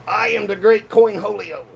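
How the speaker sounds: high, hammed-up Beavis cry; Cornholio voice. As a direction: proclaim it like Cornholio. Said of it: "do Coin Holio instead of Corn Holio".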